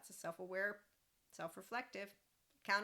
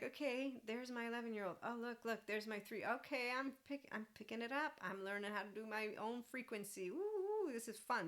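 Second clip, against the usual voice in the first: higher-pitched, playful excitement; delighted self-talk; 4 semitones higher than usual. Acted. Speaker acts out cheering herself on while learning, delighted. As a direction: talk to yourself like a pleased kid spotting things. Acting out delight at her own progress.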